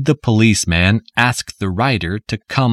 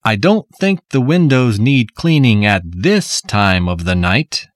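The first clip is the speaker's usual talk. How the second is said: sarcastic. Acted. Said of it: "a sarcastic voice below said".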